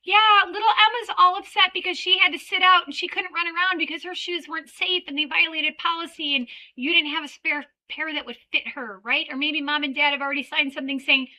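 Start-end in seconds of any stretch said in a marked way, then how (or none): 0.0-9.0 apologetic teacher. Retold or imitated. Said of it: "you're like".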